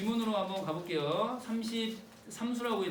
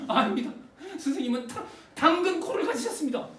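defiant loud; 6 semitones higher, 5 dB louder than usual. Acted. Son defiantly defying teacher.

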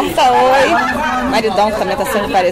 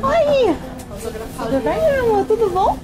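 calling out; 8 semitones higher, slower than usual. Real, not acted. Calling out to friends.

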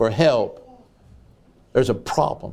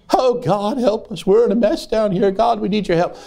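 mild pleading yell; 5 semitones higher than usual. Retold or imitated. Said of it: "why did he yell that out".

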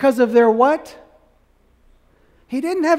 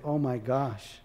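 soft, much softer, lower realisation; hushed dismay; 9 semitones lower, 14 dB quieter, slower than usual. Pretend. Ridiculer realising his mistake, in hushed dismay. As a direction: murmur it like a man caught out.

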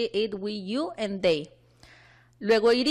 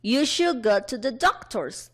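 slow, measured classroom example; deliberate language-teacher reading; model sentence; slower than usual. Shown as a demonstration. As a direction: spell it out word by word for learners.

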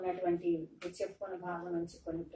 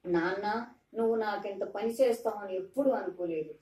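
tearful reproach; 3 dB louder than usual. Retold or imitated. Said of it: "కళ్ళ నిండా నీళ్లతో ఉంది కత్రి".

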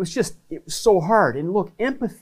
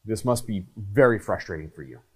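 steady, unhurried and sincere; calm empathetic words; 5 semitones lower than usual. Shown as a demonstration. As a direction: look them in the eye and say it calmly. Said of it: "you're just using the words".

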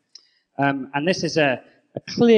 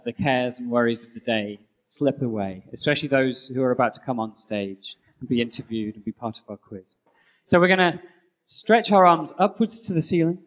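yoga instructor. Acted. Leads yoga stretch.

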